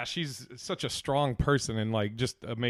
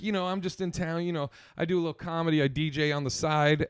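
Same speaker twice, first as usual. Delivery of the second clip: rapper character; 2 semitones higher than usual. Retold or imitated. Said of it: "he has this rap character".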